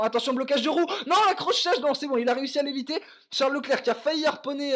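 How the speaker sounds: sudden high alarm, then fast relief; alarmed commentary. Real, not acted. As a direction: gasp at the near miss. Near collision called live. (commentaire alarmé)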